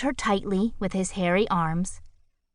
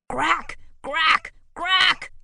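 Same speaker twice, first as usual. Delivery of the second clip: rising beast yells, higher each time; yelled, building; 10 semitones higher, much slower than usual. A narrator's reading. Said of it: "yelled Grackle".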